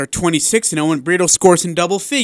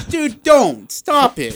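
laughing protest; 9 semitones higher, slower than usual. Real, not acted. Begging co-host to stop teasing.

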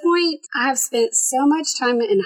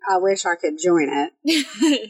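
laughing; slower than usual. Real, not acted. Laughing at own joke.

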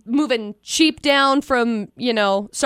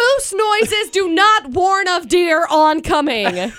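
slow laughing scold; 3 semitones higher, much slower than usual. Real, not acted. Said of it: "laughing rebuke".

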